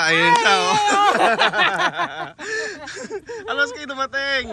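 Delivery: delighted shout of recognition; excited. Real, not acted. Spots friend, excited.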